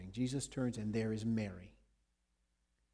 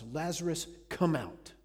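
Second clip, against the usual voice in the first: raised, higher call to the tomb; shout; 4 semitones higher, 5 dB louder than usual. Retold or imitated. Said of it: "And he shouts".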